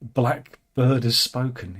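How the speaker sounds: slow, leaning hard on Blackbird; mock-pointed emphasis on Blackbird; stress on Blackbird. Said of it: "deliberately emphasise the word".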